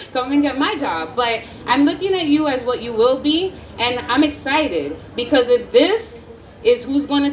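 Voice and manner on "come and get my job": laughing. Real, not acted. Joking aside at graduation.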